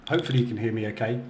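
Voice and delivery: echoey empty room; talking in an echoey cave. Real, not acted. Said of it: "I just sound like I'm in a cave".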